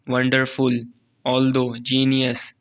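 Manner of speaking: "वंडरफुल" and "जीनियस" with weight on the first syllable; stressed syllable shown. Shown as a demonstration. Teacher reading stress examples, "वंडरफुल", "although", "जीनियस" each accented. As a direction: lean on the second syllable of "although". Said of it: "इनके ऊपर हम जोर देते हैं".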